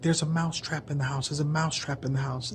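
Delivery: high, frantic mouse voice, held back; a tiny mouse begging for help; panicked mouse. Acted. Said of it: "He was like".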